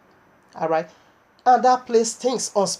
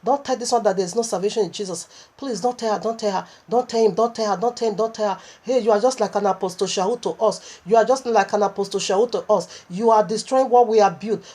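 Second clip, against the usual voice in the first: begging demon. Retold or imitated. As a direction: plead like a cornered demon, hushed and urgent. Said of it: "a demon now begin to beg me".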